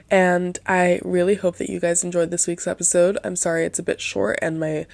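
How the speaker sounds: stuffy-nosed, soft and nasal. Real, not acted. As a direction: speak through a blocked nose, nasal. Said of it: "my nasally, softer voice today".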